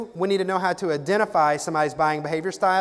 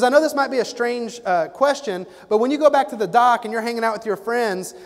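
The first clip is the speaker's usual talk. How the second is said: salesman's pitch; 5 semitones higher than usual. Retold or imitated. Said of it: "He goes".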